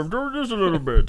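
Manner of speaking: Bane's Dark Knight voice. Retold or imitated. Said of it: "he had this voice".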